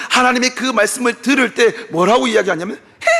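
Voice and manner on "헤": a short mock scoff through the nose; scoffing laugh. Abraham scoffing at God's promise, mock scoffing laugh. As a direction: sneer out one disbelieving laugh. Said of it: "하고 웃습니다".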